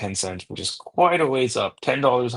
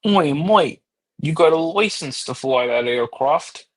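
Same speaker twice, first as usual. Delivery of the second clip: loud, slow hammed-up British accent; mock British accent; 6 semitones higher, 5 dB louder, slower than usual. Shouting at Mike in a mock British accent. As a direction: bark it out like a cheeky Brit. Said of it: "what accent was that, sir?".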